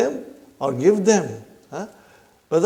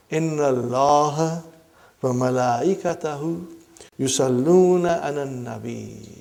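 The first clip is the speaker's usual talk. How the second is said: Quran recitation; 2 semitones lower than usual. Shown as a demonstration. Teacher reciting to brothers and sisters, measured Quran recitation. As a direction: recite the verse in unhurried, measured phrases.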